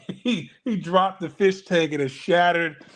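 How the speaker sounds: laughing through the retelling; amused. Real, not acted. Retelling a skit's fish tank drop, amused.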